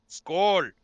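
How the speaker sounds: hearty shouted cheers; loud toast. Acted. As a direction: raise the glass and bellow.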